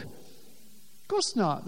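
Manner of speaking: slow, breathless near-whisper; hushed aside. Real, not acted. Preacher quietly conceding to the congregation, very slow and soft. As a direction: let it fall away almost silent.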